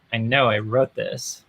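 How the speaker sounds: slow, then a high exasperated squeak; incredulous, as if he can't believe this; mock disbelief. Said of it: "and I'm like".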